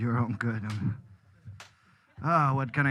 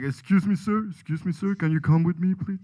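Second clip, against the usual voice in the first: sexy voice. Retold or imitated. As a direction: purr it, seductive. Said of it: "That's my sexy voice".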